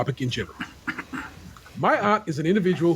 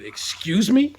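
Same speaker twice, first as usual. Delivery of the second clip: lightly acted affront, pitched up; a mildly indignant, higher-pitched query; offended; 5 semitones higher, slower than usual. Reader voicing an aunt shocked by a nephew's request, mildly offended. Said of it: "in a very offended tone".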